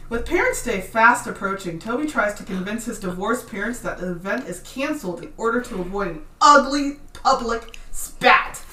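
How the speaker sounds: polished, professional reading voice; customer service voice. Real, not acted. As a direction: read it like a front-desk script. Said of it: "Your customer service voice just flipped on like a switch".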